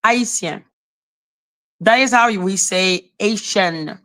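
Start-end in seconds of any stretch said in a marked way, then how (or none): 0.1-0.6 Haitien said the French way, silent H; French pronunciation. Shown as a demonstration. Explaining to Ralph how French differs, French pronunciation. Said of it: "we pronounce things different". 3.2-4.0 Haitian attempted in English, like AY-shun; English pronunciation. Shown as a demonstration. French speaker trying the English word, English pronunciation. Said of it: "how you say it in English".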